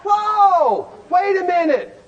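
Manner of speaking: startled. Retold or imitated. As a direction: jump back, caught off guard. Husband's startled reaction.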